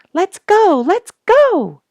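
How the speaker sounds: put-on high, loud eager child's shout. A narrator's reading. Young bluebird urging the family south, high eager shout. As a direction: yell it like an impatient young bird. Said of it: "shouted one of the young".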